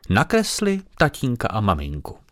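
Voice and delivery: lightly voiced fat lady echoing the child. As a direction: echo the girl as the visiting lady. Paní opakuje Aniččina slova. (lehce naznačený hlas tlusté paní)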